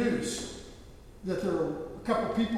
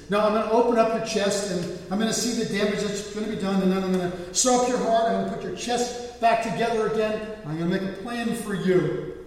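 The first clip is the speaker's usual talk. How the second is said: forceful, mildly exasperated explanation; retold surgeon losing patience; frustrated surgeon; 4 semitones higher, 4 dB louder than usual. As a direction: lay it out with growing frustration. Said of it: "getting a little more frustrated".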